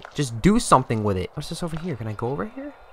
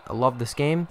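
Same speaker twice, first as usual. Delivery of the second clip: sarcastic; 5 dB quieter than usual. Real, not acted.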